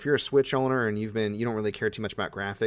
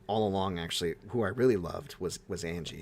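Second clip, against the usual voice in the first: soft, low, fading confession; mock dying breath; 5 semitones lower, 7 dB quieter than usual. Dying dwarf confessing true love to elf sorceress, fading mock last breath. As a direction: fade away softly like a hammed-up deathbed confession. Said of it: "in her dying breath".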